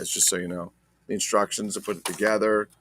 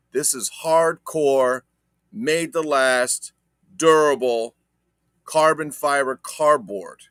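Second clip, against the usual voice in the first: mock hype; 4 semitones higher, 5 dB louder, slower than usual. Mock hype of sturdy cardboard.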